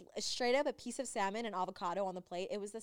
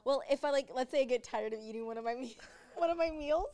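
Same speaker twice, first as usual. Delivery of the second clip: high, louder, bubbly put-on voice; imitating Oscar; 3 semitones higher, 4 dB louder than usual. Imitating a friend telling her trainer's advice, high and bubbly. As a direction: play the friend eagerly sharing a tip. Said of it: "She's like".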